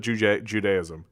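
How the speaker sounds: falling, settled "Judaism" with a full DAY syllable. Shown as a demonstration. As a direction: say Judaism with a clear DAY in the middle, joo-DAY-ism. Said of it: "I've always called it".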